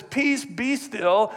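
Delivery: slow, calm rebuke of the storm; Jesus calmly stilling the storm; calm slow command. Acted.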